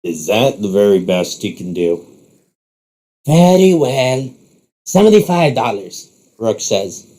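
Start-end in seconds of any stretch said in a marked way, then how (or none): 0.0-2.1 lower, scornful question; unimpressed rival. Acted. Rival hears Rook's small bet, unimpressed. 3.3-6.1 theatrical bidding. Acted. Rook ups his bet to the rival, theatrical.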